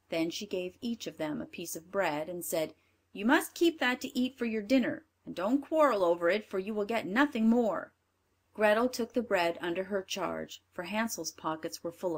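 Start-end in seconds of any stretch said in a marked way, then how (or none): 3.1-7.9 louder, bossy stepmother; a hint of a cruel stepmother; wicked stepmother. Stepmother gives bread.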